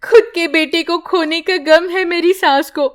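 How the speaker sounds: weeping mother praying alone; crying prayer. Acted. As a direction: sob out the prayer. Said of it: "रोने लगती है".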